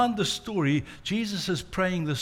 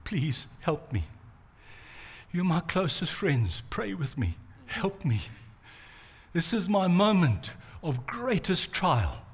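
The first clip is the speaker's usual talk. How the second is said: pleading; 4 dB quieter than usual. Retold or imitated. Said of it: "pleaded with them".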